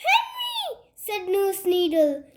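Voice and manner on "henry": high, sing-out summons; calling out. A narrator's reading. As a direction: call the next patient in. Nurse calls the next patient.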